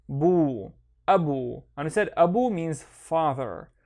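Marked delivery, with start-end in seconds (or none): 0.1-0.7 "bu" slow, with a long vowel; slow syllable demo of "bu"; isolated syllable. Shown as a demonstration. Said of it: "read each one on its own". 1.1-1.6 "abu" run together, long final vowel; joined-up model reading of "abu"; syllables joined. Shown as a demonstration. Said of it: "and then connect them".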